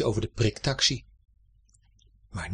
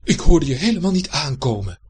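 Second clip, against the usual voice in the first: grumbling; 3 semitones higher, 7 dB louder than usual. A narrator's reading. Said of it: "mopperde Egbert".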